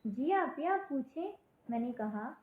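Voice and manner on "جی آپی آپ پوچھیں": put-on higher, childlike and willing; little girl. Little girl inviting her teacher's question, childlike and higher. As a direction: sound like a small eager pupil. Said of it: "کہنے لگی".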